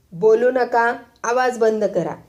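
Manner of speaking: teacher yelling. Acted. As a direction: slam the cane and yell for silence. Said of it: "खच्चून ओरडले".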